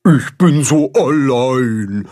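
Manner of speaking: slow, sad fish voice blurting it out; lonely carp bursting out. A narrator's reading. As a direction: let the loneliness spill over. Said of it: "platzt es aus dem Karpfen heraus".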